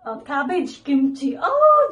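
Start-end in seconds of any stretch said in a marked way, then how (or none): 1.4-1.9 surprised oh. Real, not acted. Sudden high exclamation.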